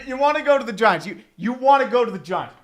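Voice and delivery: high loud plea to Rodgers; loud pleading. Real, not acted. Fan pleading with Aaron Rodgers, high and loud. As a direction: call out to him begging.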